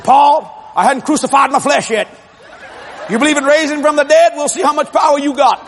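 high-pitched, feisty retort; defiant. Retold or imitated. Mama with rifle answers husband Paul, defiant. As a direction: imitate a fired-up wife standing her ground.

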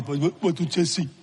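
lightly voiced elderly Polish lady asking; a hint of an old woman's voice, repeating "what". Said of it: "And she talked like this".

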